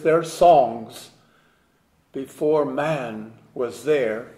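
measured poem reading, pauses between phrases; poem recitation. Acted. Reads own poem aloud.

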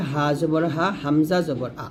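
হা and আ from the bottom of the throat, unsqueezed; light glottal letters. Shown as a demonstration. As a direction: keep হা and হামজা open and light. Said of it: "কণ্ঠনালীর শুরু থেকে বলতে হবে". (গলার শুরু থেকে হালকা হা, হামজা)

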